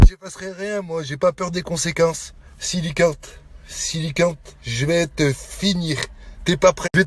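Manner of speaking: low, soft, real threat; quiet menace. Real, not acted. Man warning his rival he will finish him, quiet menace. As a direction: threaten softly, voice held low.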